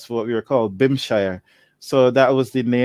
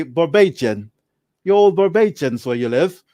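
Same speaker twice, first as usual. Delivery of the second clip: mock English accent; 2 semitones higher than usual. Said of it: "the English accent, they would say".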